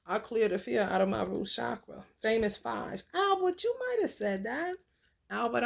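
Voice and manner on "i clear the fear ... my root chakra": affirmation. Shown as a demonstration. Guiding viewers, repeating the mantra. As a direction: stress on fear in a steady mantra. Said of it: "This is what you're gonna be saying".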